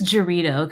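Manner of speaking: Dorito with an English J, "juh-REE-doh"; partner's mispronunciation. Retold or imitated. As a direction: quote the wrong J at the start of Dorito. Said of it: "he says Dorito".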